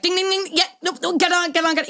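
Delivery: high, giddy chant of delight; mock thrill, voice up high; excited. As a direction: squeal it like hearing good news. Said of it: "we're like".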